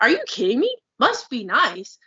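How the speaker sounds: worked-up, incredulous comeback with high jumps; offended, emphatic pushback; indignant retort. Retold or imitated. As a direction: throw it back in disbelief. Indignant retort to envious comments.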